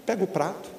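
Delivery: the quiet way a parent should ask; soft-spoken. Shown as a demonstration. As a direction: say it calmly, no yelling. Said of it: "Não dá pra falar assim".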